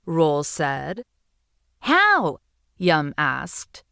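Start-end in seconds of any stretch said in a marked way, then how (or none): 1.8-2.4 high and louder, urgent little voice; pleading seahorse. Acted. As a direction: beg the dragons for help. Seahorse asks dragon.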